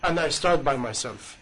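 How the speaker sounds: a quiet, understated confession of fault; humble confession. Retold or imitated. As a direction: own the blame quietly. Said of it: "he said".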